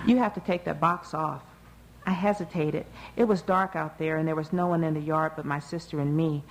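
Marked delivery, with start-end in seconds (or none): 0.0-1.4 words broken by laughter; laughing. Acted. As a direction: laugh through the request. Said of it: "between crests of laughter".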